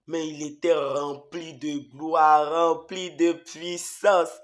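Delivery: slow, reverent proclamation; slow solemn awe; awed. Real, not acted. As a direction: proclaim glory slowly. Awe at the Lord's glory.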